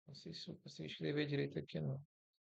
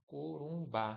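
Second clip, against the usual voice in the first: "Corumbá" with the stress on its last syllable, bá; stress on final syllable; slower than usual. Shown as a demonstration. Teacher showing an oxytone example, final syllable of "Corumbá" stressed. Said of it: "a sílaba forte é ba".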